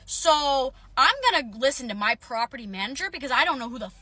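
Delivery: heated retelling of an angry comeback; angry retort. Retold or imitated. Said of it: "I was really fucking angry".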